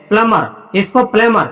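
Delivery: प्लमर said with no b sound, plum-er; silent b pronunciation. Shown as a demonstration. Teacher to students, plumber said with silent b. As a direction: say प्लमर dropping the b entirely. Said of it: "इसको प्लमर पढ़ते हैं".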